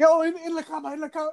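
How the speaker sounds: high, teasing frightened voice; spooky warning about the bed, mocked; mock spooked boss. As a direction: ham up the fright to poke fun. Superintendent mocking the scared worker.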